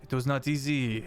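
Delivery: put-on hammy French accent; bad French accent, matter of fact. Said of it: "my horrible French accent".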